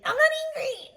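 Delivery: high, loud insisting I'm not angry; Key and Peele style fake-calm denial; fake calm girl voice. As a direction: squeal it, clearly furious underneath. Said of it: "pretending to be a girl and he's like".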